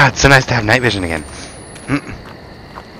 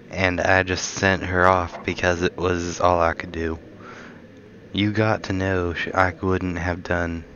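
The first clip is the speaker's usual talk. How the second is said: bad Southern accent; 5 dB quieter than usual. Shown as a demonstration. Gamer reading a found note aloud in a bad Southern accent. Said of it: "I unintentionally read that in a bad accent".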